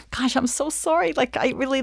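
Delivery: high-pitched, squirming apology; flustered apology. Acted. Client apologizing to her lawyer, flustered.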